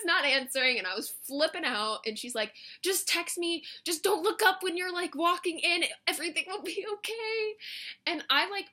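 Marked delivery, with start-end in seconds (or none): 2.8-7.6 high-pitched imitation of a friend talking her through it; reassuring friend. Friend talking her through walking in, high-pitched reassurance. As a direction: coax in a light, raised voice.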